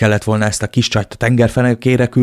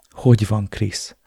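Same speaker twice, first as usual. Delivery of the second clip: anxious question; slower than usual. Acted. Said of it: "Remegtem a kétségbeeséstől".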